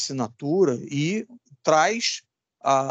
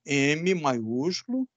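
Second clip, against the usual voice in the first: slow dictation; 3 dB quieter, much slower than usual. Shown as a demonstration.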